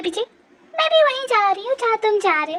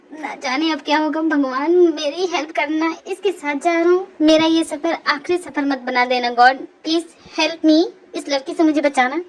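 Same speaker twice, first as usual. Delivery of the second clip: pleading man; 4 semitones lower than usual. Acted. Man praying to be saved from this girl, pleading. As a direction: lower male character voice, mildly desperate. Man prays for rescue from her.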